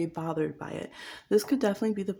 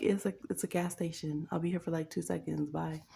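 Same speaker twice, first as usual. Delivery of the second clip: deadpan brush-off, trailing softer; unbothered and done with them; a touch of dry dismissal; flat dismissive; 5 dB quieter than usual. Retold or imitated. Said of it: "And you're like".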